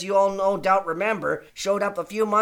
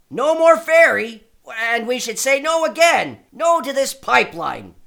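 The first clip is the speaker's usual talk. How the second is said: rallying shout; 3 semitones higher, 6 dB louder than usual. Acted. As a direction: call the crowd to say no. Rallying the crowd against pipeline.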